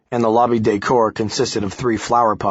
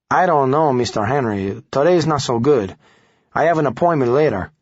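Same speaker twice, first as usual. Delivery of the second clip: put-on higher, hesitant Hispanic accent; evasive Hispanic accent; 4 semitones higher than usual. Guzman stalls the reporter, evasive Hispanic accent. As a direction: dodge him in a Hispanic accent. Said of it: "A man with a thick Hispanic accent answered".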